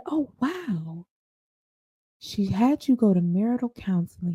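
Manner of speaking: soft, careful "oh, wow" in retelling; gentle. Retold or imitated. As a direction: gently draw out the story. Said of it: "So I'm gentle".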